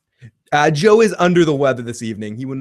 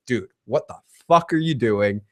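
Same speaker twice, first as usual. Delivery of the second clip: excitable Mike; 4 semitones lower than usual. Retold or imitated. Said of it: "too excitable for Mike".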